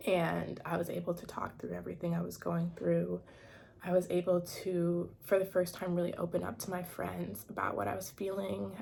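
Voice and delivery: shaky, near tears; intermittent tremor. Real, not acted. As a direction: voice shaking with emotion. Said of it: "sorry, my voice is shaking".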